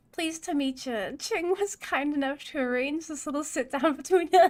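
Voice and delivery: hammed-up New York accent, with a laugh. Dwarf producer greeting the runner in a rough New York accent. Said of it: "high and nasal ... New York accent".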